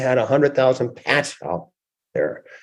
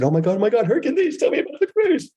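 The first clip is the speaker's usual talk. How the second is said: squealing mock excitement, much higher and faster; excited gushing; 12 semitones higher, much faster than usual. Asking his friend about the cruise, giddy high mock excitement. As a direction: gush like a giddy kid.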